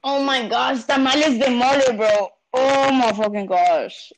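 high, loud rapturous gushing; swooning over the food; raving excitement. Real, not acted. To the host, gushing about tamales de mole.

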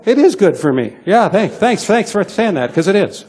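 upbeat retort with a laugh under it; cheeky comeback. Retold or imitated. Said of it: "And you know what I go?".

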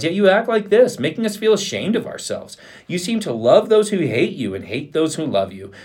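high-pitched, indignant scolding; heated rebuke. A narrator's reading. Joab scolds the grieving king, indignant and high-pitched.

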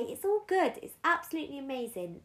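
high-pitched, gushing imitation of positive people; overly positive people. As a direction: mimic people insisting all is well, quick and high. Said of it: "I see many people say".

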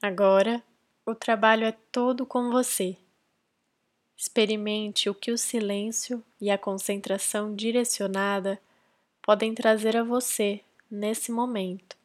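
calm, measured meditation guidance with long pauses; guided meditation. Real, not acted. Podcast host leading listeners into silent breath concentration, guided meditation. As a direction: guide them gently into focus, leaving space between phrases.

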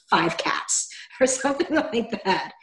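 whispered through a laugh. Real, not acted. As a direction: giggle the words out under your breath. Joking about dying alone with cats.

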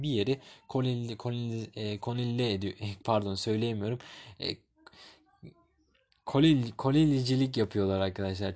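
hoarse, losing her voice, stumbling. Real, not acted. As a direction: voice giving out mid-word. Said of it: "Yani sesim gitti".

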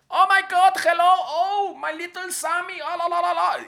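high loud hammed-up Colombian accent in English; exaggerated Colombian-accented English; Sofía Vergara accent. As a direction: ham up a flirty Colombian accent. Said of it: "Sofía Vergara, idéntica".

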